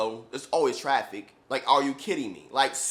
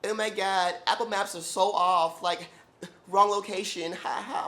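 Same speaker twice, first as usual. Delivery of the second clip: higher, airy laughing client; a lightly voiced giggling client; giggly excuse; 6 semitones higher than usual. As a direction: brush it off with a giggle. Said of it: "she's almost, like, laughing".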